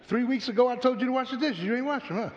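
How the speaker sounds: tally up every sin like mom; counting parent. Retold or imitated. Mildly voiced parent recounting old offenses to the child.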